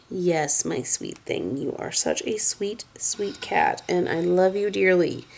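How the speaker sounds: dote on the cat tenderly; cooing to cat. Real, not acted.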